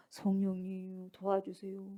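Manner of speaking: slow, soft, low mock prayer; passive plea. Onlooker praying while still watching, slow passive plea. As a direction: drag out a half-hearted plea. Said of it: "자기 딱 보고 있으면서도".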